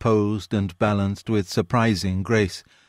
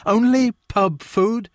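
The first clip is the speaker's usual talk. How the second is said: much higher and slow, stretching "Only pub food?"; offended landlord, rising disbelief; outraged repeat; 12 semitones higher, slower than usual. A narrator's reading. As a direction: let the outrage climb on "Only". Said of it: "soundless affront".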